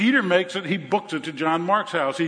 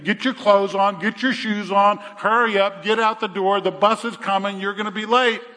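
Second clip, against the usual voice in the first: hurrying mama; 3 semitones higher than usual. Acted. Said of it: "Sounds like a mama talking to a first grader".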